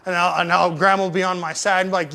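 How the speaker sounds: normal talking voice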